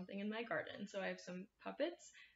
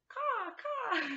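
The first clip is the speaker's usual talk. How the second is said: very high, loud cawing crow; high loud crow call for the kids; 14 semitones higher, 6 dB louder than usual. Acted. Crow sound in garden rhyme.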